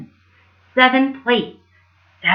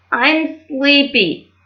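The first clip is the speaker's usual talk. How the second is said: very slow, drowsy dwarf; slow sleepy yawn of a voice; 4 semitones higher, much slower than usual. Acted. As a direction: drag it out like you're nodding off. Sleepy's line, named after.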